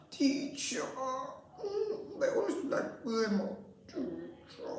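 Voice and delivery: put-on high, half-laughing child voice; giggling, stuck child. Stuck child laughing, near tears.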